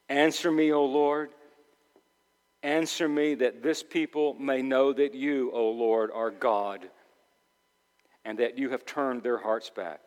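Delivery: subdued, unforced plea to God; prayer. Acted. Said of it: "Elijah prayed".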